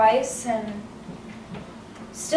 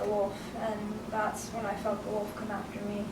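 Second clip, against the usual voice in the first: softly grieving, fading quieter; somber; 6 dB quieter than usual. Acted. Red telling group therapy of losing her grandmother, somber. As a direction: let the memory sink to a hushed close. Recalls grandmother's death, childhood slipping away.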